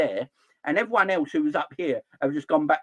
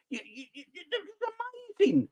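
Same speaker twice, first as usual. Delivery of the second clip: laughing disbelief; 6 dB quieter than usual. Real, not acted. Laughing at the state of football.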